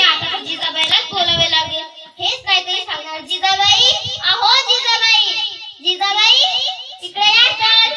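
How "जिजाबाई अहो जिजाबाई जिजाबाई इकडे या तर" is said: louder, higher call across the yard. Acted. Savitri calls her friend Jijabai over, loud call.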